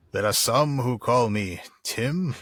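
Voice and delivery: slow, lightly put-on Tim the Enchanter; drawn-out mock wizard line; Monty Python Tim voice. Aragorn musters courage, slow mock Tim voice. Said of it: "Aragorn just musters his courage and says".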